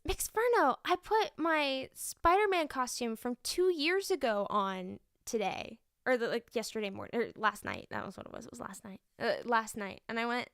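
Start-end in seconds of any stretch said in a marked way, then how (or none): 0.0-5.8 put-on kid voice. Teacher lightly voicing a proud second grader.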